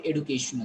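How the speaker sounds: "education" as ed-oo-KAY-shun; "education" without the J sound; alternative pronunciation. Shown as a demonstration. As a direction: keep a plain D in "education". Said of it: "This is American pronunciation".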